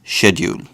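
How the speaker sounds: schedule said shedjool with sh; own pronunciation. Shown as a demonstration. Giving his own way of saying schedule, own pron. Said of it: "I pronounce it as".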